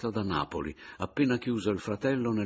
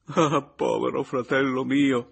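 higher, louder, slow anguished lament; heartbroken cry; 7 semitones higher, 8 dB louder than usual. A narrator's reading. Papiano crying over his brother, heartbroken. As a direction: pour out the grief. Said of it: "con tale schianto di sincerità".

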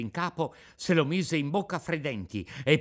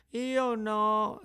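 high, breathless little stammer; stammered denial; 9 semitones higher than usual. A narrator's reading. Pinocchio, out of breath, denies it to the police. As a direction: stammer it out, scared. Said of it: "ripeté Pinocchio".

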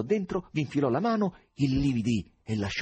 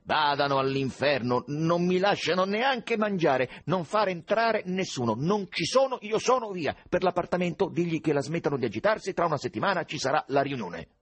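high, loud, irritated outburst; angry snarl; 7 semitones higher, 4 dB louder than usual. A narrator's reading. Husband snarls orders at his wife during his meal, angry growl. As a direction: growl it out like a dog, voice raised. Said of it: "ringhiò come un cane".

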